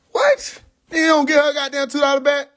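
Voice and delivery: high, sharp disbelief; can't believe what he hears; real outrage at refusing a refund; outraged disbelief. Real, not acted. Outraged reaction.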